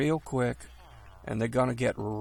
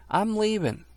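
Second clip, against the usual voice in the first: panicky; 10 semitones higher, 3 dB louder than usual. Real, not acted. Fleeing the spider.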